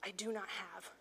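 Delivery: low, soft, measured phrase; repeat-after-me recital. Shown as a demonstration. Teacher feeding Peter's line to children, low measured recital. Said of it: "Repeat after me".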